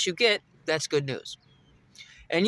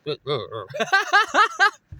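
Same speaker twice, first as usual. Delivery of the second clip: mock laugh; 8 semitones higher, 3 dB louder than usual. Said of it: "she's like".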